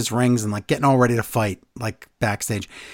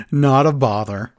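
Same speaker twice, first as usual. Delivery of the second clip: put-on Irish accent; 2 semitones lower than usual. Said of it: "he says it in his Irish accent".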